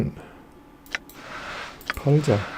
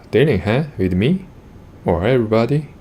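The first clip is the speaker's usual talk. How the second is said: suspicious merchant; much slower than usual. Acted. Merchant quizzes the player about trading, suspicious. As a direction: probe him with narrowed suspicion. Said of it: "His eyes narrow even further".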